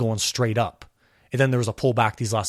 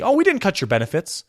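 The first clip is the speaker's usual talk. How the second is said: mock politician; 8 semitones higher than usual. Mocking politicians.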